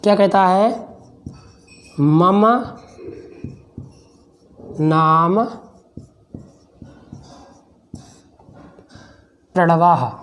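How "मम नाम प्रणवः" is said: very slow, long pauses between words; word-by-word dictation. Shown as a demonstration. Teacher dictating a Sanskrit answer to students, spaced word by word. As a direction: dictate it one word at a time.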